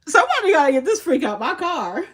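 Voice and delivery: loud, high plea to bystanders; calling for help. Retold or imitated. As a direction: call out urgently for somebody to step in.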